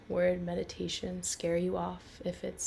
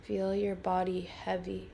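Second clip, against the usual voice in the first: guided meditation. Acted.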